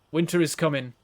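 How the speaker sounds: put-on light Northern English accent on "Winter is coming", a flat northern u in "coming"; a mild Game of Thrones northerner, lightly done. Streamer quotes Game of Thrones to show northerners, northern accent. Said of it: "northerners actually talk like they do in, in Game of Thrones".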